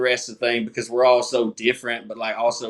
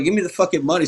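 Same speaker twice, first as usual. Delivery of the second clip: retold angry demand, pitched up; mock-annoyed, higher insistent demand; getting pissed; 6 semitones higher, much faster than usual. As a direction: act out losing patience with a cashier. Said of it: "So I'm getting pissed".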